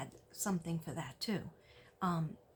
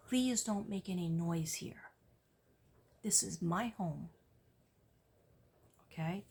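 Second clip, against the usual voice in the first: steady strong request. Shown as a demonstration. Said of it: "You have to do it in a strong voice".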